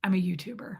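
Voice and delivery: hushed, reluctant whisper; whispered confession. Retold or imitated. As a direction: admit it under your breath. Reluctantly confesses her job.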